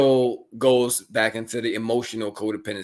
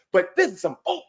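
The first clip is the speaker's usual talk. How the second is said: laughing mock complaint. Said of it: "And I'm like".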